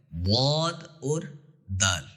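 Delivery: slow, heavy emphatic واد then a light thin دال; heavy dwad, thin dal. Shown as a demonstration. Teacher contrasting heavy واد with thin دال for students. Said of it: "دال باریک پڑھا جاتا ہے اور واد موٹا".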